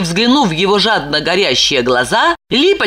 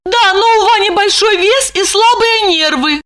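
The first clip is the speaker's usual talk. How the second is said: much higher woman's voice, earnestly explaining; Lipochka; 13 semitones higher than usual. A narrator's reading. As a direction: defend her husband.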